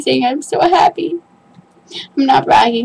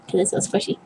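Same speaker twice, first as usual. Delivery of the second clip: whisper; 4 semitones lower, 10 dB quieter, much faster than usual. Real, not acted. Same words, whispered take.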